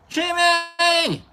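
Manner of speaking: high, drawn-out happy shout of a name; high excited call of the name; excited greeting. Real, not acted. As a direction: greet him with delight. Greeting a viewer loudly.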